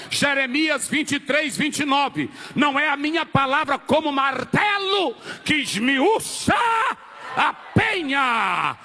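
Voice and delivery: slow, shouted scripture quote; full-force preacher declaiming; impassioned preaching. Real, not acted. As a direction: thunder out the verse, drawing out the key words.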